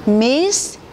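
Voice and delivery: misconduct said in separate syllables; sound-by-sound English. Shown as a demonstration. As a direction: break misconduct into small sounds. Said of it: "이렇게 소리를 끊어서 들려주는 거죠".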